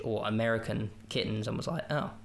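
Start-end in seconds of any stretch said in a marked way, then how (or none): 1.9-2.1 mother cat switching voice. Retold or imitated. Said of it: "speaking like this".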